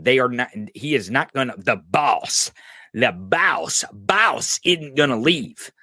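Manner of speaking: hushed conspiratorial whisper about the boss; slow, breathy whispered insider gossip; mock hushed whisper. Mocking Scavino whispering about boss.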